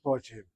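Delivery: "Botim" with a rounded "o" in the first syllable; short-kamatz pronunciation. Shown as a demonstration. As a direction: say "Botim" as baw-TEEM. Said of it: "The word is pronounced".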